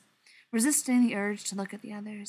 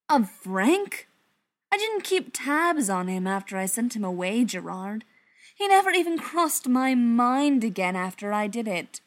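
defensive; 2 semitones higher, 5 dB louder than usual. Acted. Beckett defending himself heatedly.

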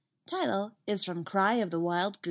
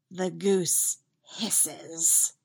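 very slow, sibilant hiss on the last word; much slower than usual. A narrator's reading. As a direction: draw out "hisses" like an angry goose. Narrator mimics the goose's hiss.

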